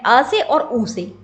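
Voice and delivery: अ से और उ से spelled out slowly; teacher stressing the two sounds; slow and deliberate. Shown as a demonstration. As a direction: lay each sound down slowly for students. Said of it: "दो वर्णों से मिलके बना है".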